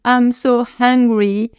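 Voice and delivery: slow "I'm so hungry" with breathed H on "hungry"; drawn-out demo of aspirated "hungry"; sounded H. Shown as a demonstration. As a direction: stretch it out, puffing the H of "hungry". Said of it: "C'est important de savoir la différence".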